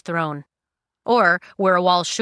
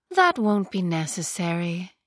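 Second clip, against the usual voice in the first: lyrical and calm. Acted. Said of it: "voice was lyrical and calm".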